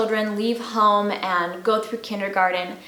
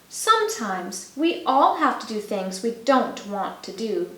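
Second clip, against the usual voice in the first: gentle. Acted. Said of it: "she told him gently".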